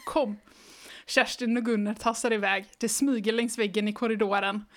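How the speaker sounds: even, lively read-aloud pace; storybook reading voice; story narration. A narrator's reading. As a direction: read the children's book to the listener. Reads the book aloud.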